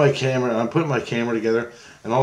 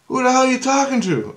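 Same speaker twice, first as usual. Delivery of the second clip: much higher mock retort; teasing Jesus; 14 semitones higher, 4 dB louder than usual. Jesus teasing him in the dream, mock retort. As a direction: throw the question back, amused. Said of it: "And he goes".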